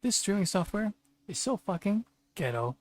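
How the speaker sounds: real annoyed outburst; frustrated rant. Real, not acted. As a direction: vent at the software. Ranting at streaming software.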